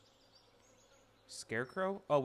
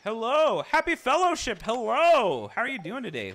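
high, loud welcoming calls; excited greeting; 10 semitones higher, 12 dB louder than usual. Acted. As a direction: greet them like a cheery shopkeeper. Greeting new viewer loudly.

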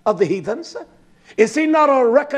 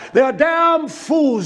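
preaching shout; 6 semitones higher, slower than usual. Real, not acted. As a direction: hammer each word slowly at the congregation. Preacher condemning gold investors.

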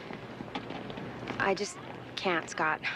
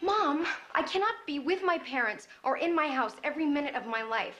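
higher-pitched, frustrated complaint; exasperated protest; 6 semitones higher than usual. Acted. Daughter telling mom she feels under house arrest, exasperated. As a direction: argue your case, pitch climbing.

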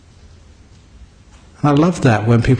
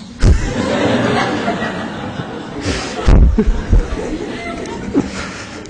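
laughing helplessly at his own punchline; a long, high wheezing laugh; high breathless laughter. Real, not acted.

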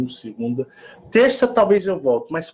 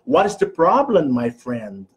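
American English; 4 semitones lower than usual. Shown as a demonstration. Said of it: "inglês americano".

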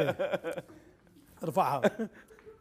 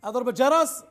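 loud, unaware of own volume; too loud, headphones on; 4 semitones higher, 4 dB louder than usual. Real, not acted. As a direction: shout over music in your ears. Guesser now wearing headphones.

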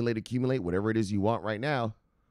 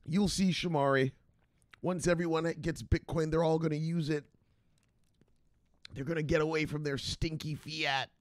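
smug maximalist; 5 semitones higher than usual. Retold or imitated. Bitcoin maximalist lecturing host.

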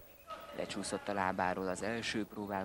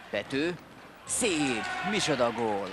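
goal call, much higher and louder; excited hungarian sports commentary; 5 semitones higher, 6 dB louder than usual. Real, not acted. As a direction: shout the goal out in delight. Goal scored, commentator erupts.

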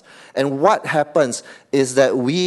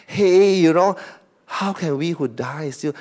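mock gentle persuasion; 4 semitones higher than usual. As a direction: coax them gently, half-mocking. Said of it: "Like a very gentle statement, like Paul is trying to persuade y'all".

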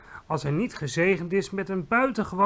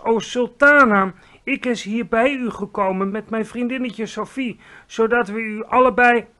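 big booming giant voice, much louder and higher; friendly giant; 7 semitones higher, 10 dB louder than usual. Acted. Giant bows and hails the Queen in booming praise. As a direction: boom out grand praise like a clumsy giant.

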